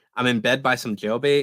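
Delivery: ordinary talk, nothing marked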